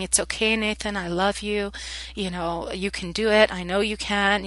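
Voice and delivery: soothing reassurance. Retold or imitated. Teacher caressing the crying boy, soft and tender. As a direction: comfort him quietly, tenderly. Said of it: "just saying".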